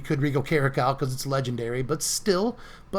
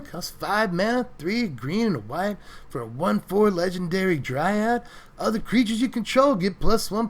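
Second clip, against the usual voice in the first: hippie voice; 4 semitones higher than usual. Acted. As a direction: read it like a mellow stoner hippie, man. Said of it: "read all the Selesnya cards like a hippie".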